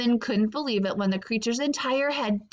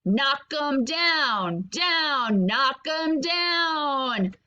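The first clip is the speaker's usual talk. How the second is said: shouting; much slower than usual. Acted. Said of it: "The shimmering rabbit shouted".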